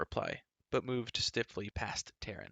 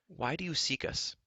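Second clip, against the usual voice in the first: demanding; 7 semitones higher than usual. Acted. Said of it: "Terran demanded".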